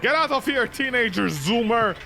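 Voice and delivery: mock spirit yell. Mock spirit chasing intruder.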